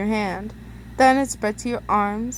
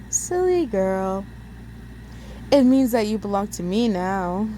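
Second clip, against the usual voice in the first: menacing captor. Acted. Villain Ben taunting captive.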